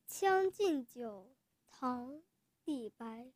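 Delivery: grand classical poem recital, rising and falling; chinese poetry recitation. Acted. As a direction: declaim it boldly, stretching the last line. Child recites Li Bai poem.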